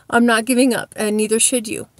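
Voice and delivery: breathless, puffing between words; short of breath. Real, not acted. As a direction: speak out of breath. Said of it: "I sound like I'm short of breath".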